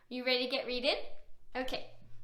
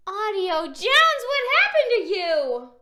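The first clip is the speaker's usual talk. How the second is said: gasping surprise; 7 dB louder than usual. Acted. Reader exclaims to character.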